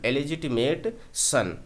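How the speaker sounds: इलेजिटिमेट सन slowly, the टि said lightly; slow model phrase. Shown as a demonstration. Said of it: "उसको हल्के से पढ़ेंगे".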